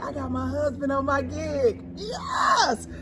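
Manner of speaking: crying out in high, loud joy; joyful shout. Retold or imitated. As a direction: shout it like the best news ever. Excited retelling of joyful moment.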